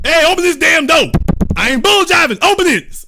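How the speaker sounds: loud, high-pitched mock tirade; angry demand. Angry visitor demands the host unlock the door, hammed-up yelling.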